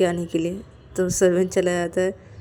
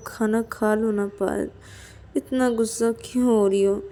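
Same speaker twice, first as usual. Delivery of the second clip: apologetic pleading; 3 semitones higher than usual. Acted. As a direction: plead gently with a touch of remorse. Voices Ananya apologising with folded hands.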